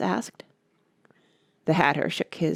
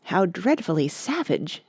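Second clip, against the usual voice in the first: exclaiming. Acted. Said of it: "exclaimed Alice".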